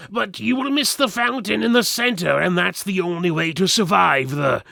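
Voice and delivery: high, loud, stammering goblin voice; panicked creature blurting the secret; terrified goblin. Acted. Terrified goblin begging for life.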